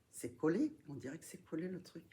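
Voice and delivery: straining to open a stuck lid; struggling with a stubborn lid; opening a stuck jar. Real, not acted. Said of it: "j'arrive pas à l'ouvrir".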